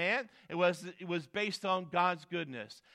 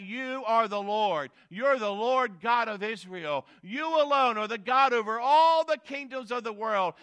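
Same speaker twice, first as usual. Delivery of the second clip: loud, raised proclamation of praise; declaring; 4 semitones higher, 5 dB louder than usual. Acted. Preacher voicing Hezekiah declaring God's greatness, declaring. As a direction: declare it emphatically up to God. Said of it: "begins to declare the greatness of God".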